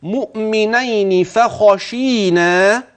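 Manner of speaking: slow chanted recitation; slow Quranic recitation. Shown as a demonstration. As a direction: chant it slowly. Recites the verse.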